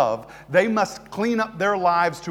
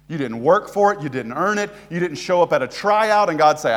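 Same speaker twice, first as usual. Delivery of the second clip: normal talking voice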